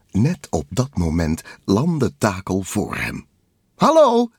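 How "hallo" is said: very high, loud greeting; called-out hello. A narrator's reading. Takel landing before Kabuto, high loud call. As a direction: holler hello in a high cartoon pitch. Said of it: "riep Takel".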